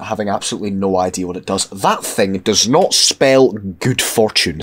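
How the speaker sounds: rough, hoarse voice from a cold. Real, not acted. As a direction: talk through a bad-sounding throat. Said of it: "I know my voice sounds fucked".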